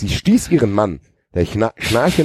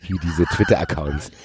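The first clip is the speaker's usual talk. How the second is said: usual speaking voice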